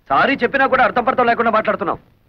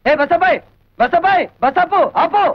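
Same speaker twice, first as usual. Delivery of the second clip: calling out; 6 semitones higher, slower than usual. Acted. Calling to stop the bus.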